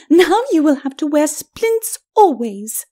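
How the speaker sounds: high, slow lady's taunt; high-pitched, mocking ladyship; gloating lady. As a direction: gloat over him with measured relish. Lady gloats over fallen husband.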